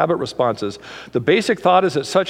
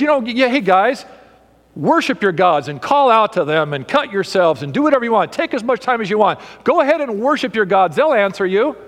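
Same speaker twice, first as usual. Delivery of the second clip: mocking taunt; 3 semitones higher than usual. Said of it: "he's mocking them".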